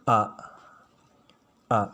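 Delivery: "A" sounded cleanly from the throat; teacher demonstrating Arabic alif as "A"; clear letter sound. Shown as a demonstration. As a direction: model the letter "A" clearly for learners. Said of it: "ini dibaca A".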